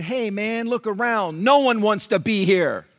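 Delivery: blunt challenger. Retold or imitated. Fellow patient answering Nelson's complaint, blunt high-voiced rebuke. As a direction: set him straight in an acted high voice.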